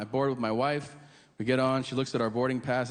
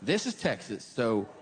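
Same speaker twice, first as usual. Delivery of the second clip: Texan cheer; 5 semitones higher than usual. Retold or imitated. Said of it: "I think they're like".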